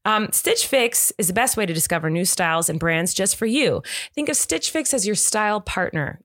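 light, upbeat podcast ad read; sponsor ad read. Acted. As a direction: sell it like a friendly host. Host reads sponsor ad.

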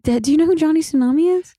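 fast, high mock whisper. Son whispering to his dad about a rival, fast whisper. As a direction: hiss it like a kid embarrassed by his dad.

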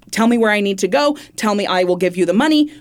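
urgent negotiating. Retold or imitated. Acted anchor urgently negotiating with caller.

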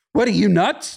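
a hint of an indignant dog voice; dog talking back. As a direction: voice the dog snapping back at the other dog. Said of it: "he's like".

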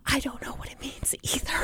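unvoiced hushed whisper. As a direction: whisper it like a secret. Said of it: "she whispers".

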